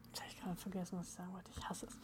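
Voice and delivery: fading to almost nothing; words dying away, barely audible; trailing off. Real, not acted. Forgot what she wanted to say.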